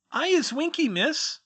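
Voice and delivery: very high, loud trembling elf squeak; timid house-elf greeting a stranger, quivering squeak. Acted. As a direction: squeak it out, small and nervous. Winky names herself.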